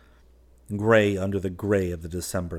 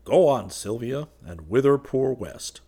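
lifted, louder, playful lilt; gay, teasing; 5 semitones higher, 5 dB louder than usual. A narrator's reading. Man teasing Sylvia after the shell, gaily. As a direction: tease her with mild gaiety. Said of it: "he spoke again gaily".

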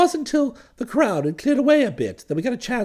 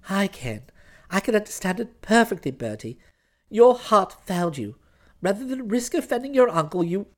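lower, controlled reproach; stern fiancée; 4 semitones lower, 3 dB quieter than usual. Acted. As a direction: accuse him coolly, voice held down. Florence reproaches Bertie.

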